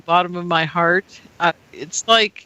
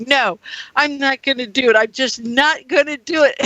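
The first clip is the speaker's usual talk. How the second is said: mad; 4 semitones higher than usual. Retold or imitated. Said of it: "I was getting mad then".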